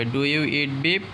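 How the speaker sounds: slow, clear question with rising end; teacher modelling a question slowly; slow model question. Shown as a demonstration. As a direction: spell out each word slowly for the learner. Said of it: "বলবো এইভাবে".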